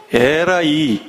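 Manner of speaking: a laughing blessing dressed as a curse; laughing mock curse. Shown as a demonstration. Pastor jokingly blesses his child with a curse, laughing. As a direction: chuckle through a fake scolding. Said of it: "이래 얘기해".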